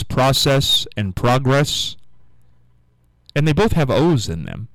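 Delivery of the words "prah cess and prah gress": process and progress said "PRAH-sess", "PRAH-gress"; common short-o pronunciation. Shown as a demonstration. Host puzzled why we pronounce them so, ah in process and progress. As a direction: slowly, open ah in process and progress. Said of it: "why we pronounce those".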